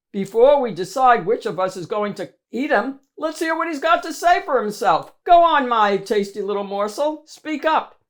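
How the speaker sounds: fast, loud teasing monster voice; mocking monster. Monster taunting Mo before eating him, fast and loud. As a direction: toy with the little morsel.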